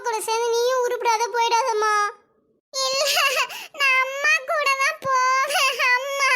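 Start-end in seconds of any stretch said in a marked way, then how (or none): 2.7-6.3 put-on high, slow whimpering child; crying child. Child refusing grandmother, wanting mother, crying. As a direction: sob it like a small kid.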